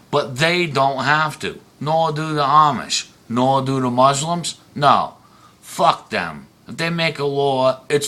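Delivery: real heated rant, pitch pushed up. Real, not acted. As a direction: let the outrage climb as you list them. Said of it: "I'm ranting and raving".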